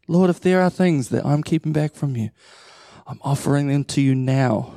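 earnest prayer to the Lord. Acted. Leads a spoken prayer.

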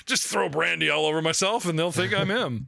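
lightly faked British accent; bad British accent. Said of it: "The bad British accent".

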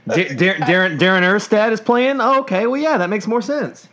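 high, stammering fake realization; mock surprise. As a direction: play it like sudden dawning surprise. Mock fan surprised by lineup.

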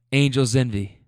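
heavy breath before a short reply; winded. Retold or imitated. Winded husband naming the bottle, acted out of breath. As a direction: act out answering while catching your breath. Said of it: "now he's really winded".

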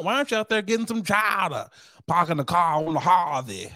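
hammed-up mock Boston accent; attempted Boston accent. Podcaster teasing an officer in a put-on Boston accent. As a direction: have a go at Boston vowels, badly. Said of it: "That's my Boston accent".

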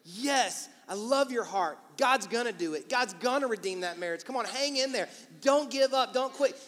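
eager pep talk, pushing harder toward the end; enthusiastic encouragement. Acted. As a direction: cheer a friend on. Acting out encouraging friend's reply.

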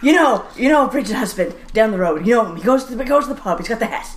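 lightly acted back-and-forth over a neighbour; a hint of small-town bickering; Nova Scotian family chat. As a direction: imitate relatives insisting you know someone. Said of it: "That is my life as a Nova Scotian".

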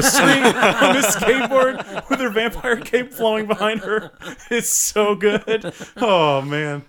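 high, laughing delight. Real, not acted. Host laughs describing the vampire skateboarding, high. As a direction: giggle through the words.

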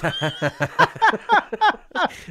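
high, loud forced cackle; rapid high cackling "ha-ha-ha"; mock laugh. Retold story of his own laugh.

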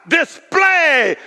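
slow, proud shout; boastful king. Acted. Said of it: "here's arrogance".

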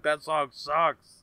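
slow, drawn-out put-down; dismissive. Retold or imitated. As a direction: drag it out with disdain. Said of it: "they're like".

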